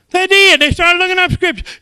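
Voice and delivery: loud, high proclamation; loud, high preacher cry; preaching shout. Acted. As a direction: shout it out triumphantly. Preaching exclamation.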